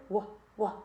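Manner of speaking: "wa, wa" sounded out slowly; teacher sounding out a word. Shown as a demonstration. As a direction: stretch the "wa" sound twice. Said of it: "it's another sight word".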